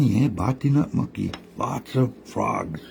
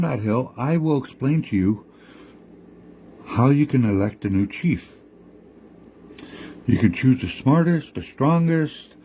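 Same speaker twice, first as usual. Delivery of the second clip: higher, coaxing trickster voice; lightly raised sly coyote explaining; scheming Coyote; 5 semitones higher than usual. Acted. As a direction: lure them up the hill. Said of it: "Coyote said".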